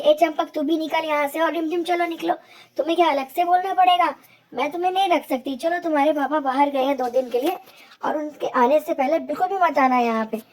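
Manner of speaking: हल्की सी कड़क सौतेली माँ की आवाज़; ऊँची आवाज़ में डाँटकर घर से निकालती माँ. Acted. Stepmother chases children out. (बच्चों को भगाती सौतेली माँ, हल्की डाँट)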